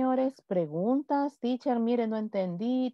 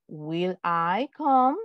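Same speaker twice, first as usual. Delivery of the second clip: very slow question; slow model question; 4 semitones lower, much slower than usual. Shown as a demonstration. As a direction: drag it out for the class. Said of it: "En pregunta". (pregunta lenta de ejemplo)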